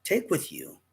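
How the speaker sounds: high, mock-foreign broken English; imitating the shopkeeper's broken English. Storyteller mimicking the saleswoman's broken English back at her, high. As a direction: echo her pidgin back at her. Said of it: "I said".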